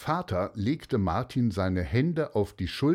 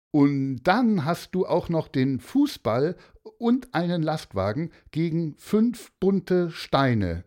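high, emphatic checking questions; incredulous father; 8 semitones higher, 4 dB louder than usual. Acted. Father questioning Martin about sharing the money, incredulous. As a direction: repeat it back in disbelief.

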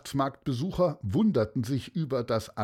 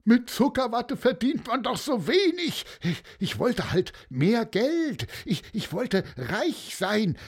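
higher, whiny excuse; mild whining; 10 semitones higher than usual. A narrator's reading. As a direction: whine like a caught crook. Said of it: "jammerte der".

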